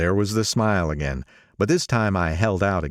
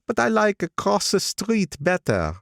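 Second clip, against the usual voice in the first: put-on higher, nostalgic old man; old gangster voice; 13 semitones higher than usual. Old gangster speaking to the narrator over lunch, higher voice. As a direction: pitch him up as the old racketeer.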